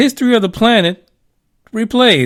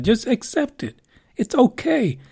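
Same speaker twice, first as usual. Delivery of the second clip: soft whisper; 4 semitones higher, 6 dB quieter than usual. Acted. Reassuring listeners about aliens.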